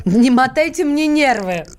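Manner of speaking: put-on slow, drawn-out Odessa Russian accent. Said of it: "Ты почему по-одесски стала говорить?".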